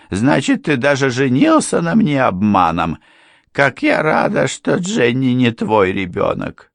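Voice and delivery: high, loud reproach; indignant wife. A narrator's reading. Wife learns her marriage was fraud, high indignation. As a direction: throw the deceit back at him.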